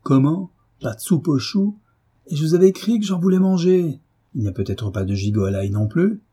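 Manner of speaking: angry husband shouting at the table; furious outburst. A narrator's reading. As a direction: roar at the wife over the missing soup. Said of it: "il s'écria, furieux".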